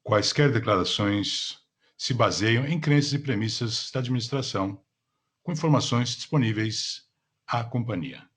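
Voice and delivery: polished call operator announcement; customer service voice. Acted. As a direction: read it like a conference call host. Conference call operator opening. (voz de atendimento ao cliente)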